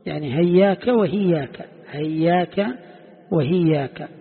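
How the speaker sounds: هياك said with an h sound in place of the hamza; h instead of hamza. Shown as a demonstration. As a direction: say هياك and وهياك starting with a clear h. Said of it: "بالهاء بدل الهمزة". (نطق هياك بالهاء بدل الهمزة)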